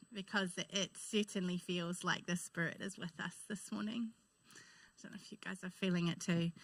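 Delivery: tearful near-whisper; hushed, choked-up voice after tears; after crying. Real, not acted. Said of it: "I've been crying all through the worship".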